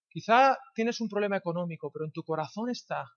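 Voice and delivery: ordinary talk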